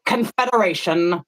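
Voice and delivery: slow mock-solemn impression; imitated speaker. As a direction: draw it out grandly, as an impression. Continues the impression.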